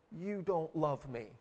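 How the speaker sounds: soft, subdued mock reproach; imitated hurt child. Little girl to her mother cleaning the wound, softly imitated hurt. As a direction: say it small and quiet, as a wounded child. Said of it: "And then Emma says".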